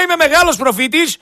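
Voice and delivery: slow, drawn-out mock of the boast; mocking quote. Host mocks the caller's prophet boast, slowly. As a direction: savour each word to ridicule him. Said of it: "Περίμενε, με λέει".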